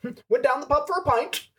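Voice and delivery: fast, high, hammed-up British accent; a bad, over-the-top British imitation; offensive British accent. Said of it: "in the most offensive British accent".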